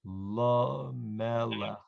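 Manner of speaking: "Lamelech" said slowly, each syllable clear; slow "Lamelech" down for the learners; slow modelling. Shown as a demonstration. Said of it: "Just this word".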